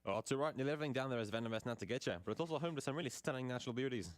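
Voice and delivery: put-on a lightly done Australian accent with broad vowels; a playful, so-so Aussie radio guest. A radio spot guest from Australia, lightly Australian accent. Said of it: "My Australian accent is not good".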